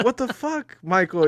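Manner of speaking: high, outraged mock snap; mock indignant. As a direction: play a startled friend yelling back. The speaker snapping at Michael Cera.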